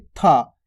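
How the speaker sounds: था with an aspirated T; changed sound था. Shown as a demonstration. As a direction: let a puff of breath out on था. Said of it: "थोड़ा ध्वनि देखो change हो रही है". (था हवा के साथ)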